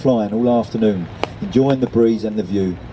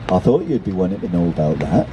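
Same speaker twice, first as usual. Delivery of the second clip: put-on lower, knowing old gull; 5 semitones lower than usual.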